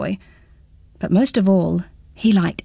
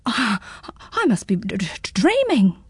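nervous stutter on dreaming; mildly shaken boy stuttering; stammering. Acted. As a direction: stumble over the word in disbelief. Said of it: "Pins stammering".

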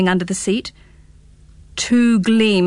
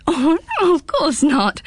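put-on boy giggling, a little higher; 7 semitones higher than usual. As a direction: laugh it off, amused. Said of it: "giggled Pins".

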